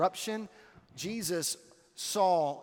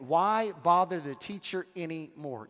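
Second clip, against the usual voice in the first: mildly salty, dismissive question. Retold or imitated. Messenger dismissing Jesus to Jairus, mildly salty. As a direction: put a touch of sarcasm on it, ending on a fall. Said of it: "gives him this very salty statement".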